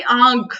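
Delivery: "आग" with a long open "aa"; pronunciation aid. Shown as a demonstration. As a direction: stress "आग" as the first sound of the word. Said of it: "अगर हम ऐसे pronounce करें".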